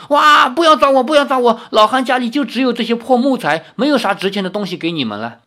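put-on high, loud old man pleading in fright; panicked cry. A narrator's reading. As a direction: cry out in alarm, then ease into hurried pleading. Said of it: "对方立刻大叫". (惊恐地高声大叫)

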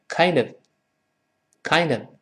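"kind of" run together as "kin-duv"; linked pronunciation. Shown as a demonstration. Teacher models "kind of" for repeating, words linked. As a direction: link the d of "kind" onto a weak "of". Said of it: "Kind跟of连读变成kind of".

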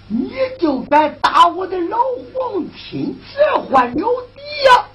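shouted, climbing high in indignation; outraged emperor. Acted. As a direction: explode with imperial fury.

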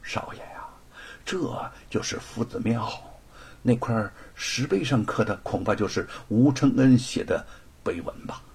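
soft, half-whispered aside; whispering servant. Acted. Servant whispering to his young master in front of the crowd. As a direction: lean in and murmur it to the young master. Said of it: "悄声地向罗庞说道".

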